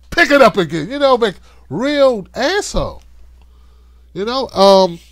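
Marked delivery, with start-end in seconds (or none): 0.1-0.9 loud, harsh order; mock furious yell. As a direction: yell at the staffer. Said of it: "yelling and cussing and throwing stuff".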